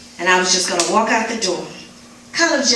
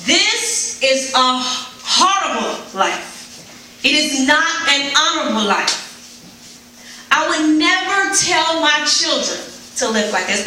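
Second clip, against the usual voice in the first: anguished crying out; 6 semitones higher than usual. Retold or imitated. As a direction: pour out despair, a touch of sobbing. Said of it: "I cried as I leaned over the stove".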